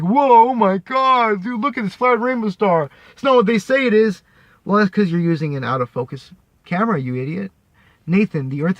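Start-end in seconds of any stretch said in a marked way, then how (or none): 0.0-4.2 mock awestruck dude. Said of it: "You're like".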